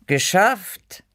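cool. A narrator's reading. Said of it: "sagte ich cool".

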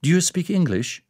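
waitress trying English on the tourist dad; waitress switching to English. Acted. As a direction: ask helpfully, in English. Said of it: "die Kellnerin".

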